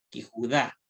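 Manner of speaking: Yehudá repeated as "kihudá"; demonstrated pronunciation. Shown as a demonstration. Teacher repeating it for students, Yehudá as "kihudá". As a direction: open Yehudá on "ki", end on stressed "dá". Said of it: "Ella se va a pronunciar".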